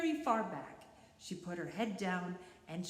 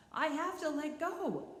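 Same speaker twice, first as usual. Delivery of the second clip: gasped; 9 semitones higher than usual. Acted. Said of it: "he gasped".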